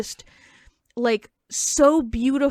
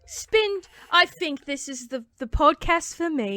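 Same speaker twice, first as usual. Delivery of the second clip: put-on lightly raised British-accented voice; mock British singer; 4 semitones higher than usual. Pretend singer decides this podcast suits her, mock British. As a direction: try on a British star's voice. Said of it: "we give a big singer vibe".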